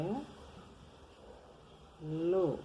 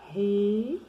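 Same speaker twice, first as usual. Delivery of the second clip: "Ri" high and loud; stressed syllable; 5 semitones higher, 7 dB louder than usual. Shown as a demonstration. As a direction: punch the syllable "Ri". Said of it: "tem dois R's". ("Ri" forte e agudo)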